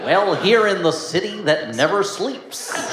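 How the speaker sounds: put-on high, slow, stretched-out New York accent; mock New York accent. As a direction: ham up a bad American New York accent. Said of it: "Doctor Strange with his New York accent".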